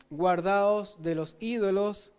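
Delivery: "guardaos de los ídolos" slowed, "guardaos" leaned on; slow warning. Shown as a demonstration. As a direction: drag out the warning word by word. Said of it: "la advertencia final". (advertencia lenta y solemne)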